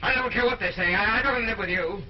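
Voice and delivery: high, loud, heated refusal; defiant outburst. Acted. King refusing his wife's threat of scandal, defiant. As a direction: throw it back at them angrily.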